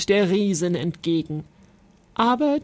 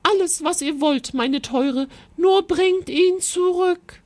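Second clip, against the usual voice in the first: high, pleading queen; eager queen calling out; 8 semitones higher than usual. A narrator's reading. Desperate queen begging the knight to rescue her son, high and urgent. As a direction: plead excitedly, pitch climbing at the end. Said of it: "rief die Königin".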